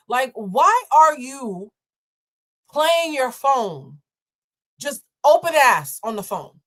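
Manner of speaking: slow, drawn-out disbelief; exasperated. Real, not acted. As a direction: spell it out like scolding. Scolding phone users, slow.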